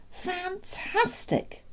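very high, slow, drawn-out marvelling; amazed. Acted. Doctor marvelling at the pram trick, amazed. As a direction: stretch the word out in wonder.

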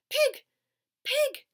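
high, loud coaxing pig call; kindly, high-pitched beckoning. A narrator's reading. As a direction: call the pig sweetly from afar. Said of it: "in a kind voice".

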